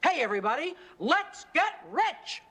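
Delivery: rally everyone without really yelling, stretching the last words; mock rallying shout. The speaker reads out a book's slogan, mock rallying shout. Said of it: "let you stand up and shout".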